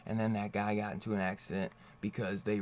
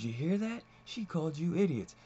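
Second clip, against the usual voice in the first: pitched way up, mocking and gleeful; gleeful gloating taunt; 6 semitones higher than usual. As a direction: crow it to the crowd like a smug villain. Big Head mocking woman to crowd.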